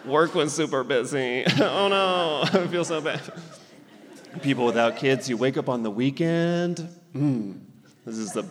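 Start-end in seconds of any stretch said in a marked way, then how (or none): 0.0-3.2 lightly voiced friend whining about a busy day; a hint of a whiny friend, half laughing; mock childless friend. Friend griping to a parent about work, mock whiny. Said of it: "They're like".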